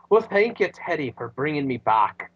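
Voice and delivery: put-on a weak, half-hearted Scottish accent; fumbling a Scottish accent for a quick joke; terrible Scottish accent. Host mimicking McIntyre thanking Teddy, bad Scottish accent. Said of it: "That's a terrible Scottish accent".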